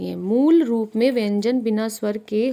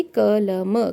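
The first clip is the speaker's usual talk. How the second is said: slow example; much slower than usual. Shown as a demonstration. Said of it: "जैसे कि".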